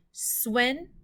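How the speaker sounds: "swindle" broken in two with a long pause; syllable by syllable. Shown as a demonstration. Teacher tapping out syllables for pupils, "swindle" split syllable by syllable. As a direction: tap out "swindle" as two separate beats. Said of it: "Let's tap those out".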